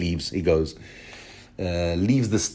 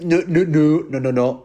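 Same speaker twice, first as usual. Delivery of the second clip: raised, insistent mock-king "no, no, no"; Stannis interjecting; 7 semitones higher, 5 dB louder than usual. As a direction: cut in like an annoyed king, lightly voiced. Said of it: "this is where Stannis interjects".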